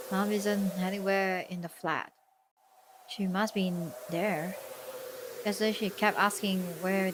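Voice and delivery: soft, subdued story reading; understated visual novel narration; game narration read-aloud. Acted. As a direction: read the narration evenly and softly.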